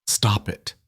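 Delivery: put-on a small child's voice cracking; plead, voice breaking. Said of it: "Max's voice broke".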